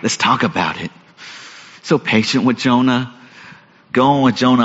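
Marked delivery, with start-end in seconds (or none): 0.0-0.9 softer, lower, coaxing question; a hint of a gentle therapist; gentle therapist God. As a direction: ask like a patient counsellor. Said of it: "he's a therapist asking Jonah".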